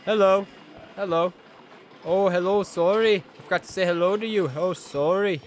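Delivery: high, put-on mimicry of Alana B's accent; poor Alana B accent. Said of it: "the poor Alana B accent".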